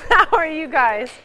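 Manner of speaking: loud, lively call to the room; loud greeting. Real, not acted. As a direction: greet the whole room loudly. Preacher greeting the congregation loudly.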